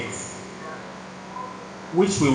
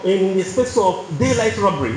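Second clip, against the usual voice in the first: higher-pitched, indignant imitation of an angry man; mock-exasperated challenge, pitched up without shouting; retold anger; 4 semitones higher than usual. Angry passenger to the calm driver after a fine, mildly indignant retelling. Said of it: "He was still angry".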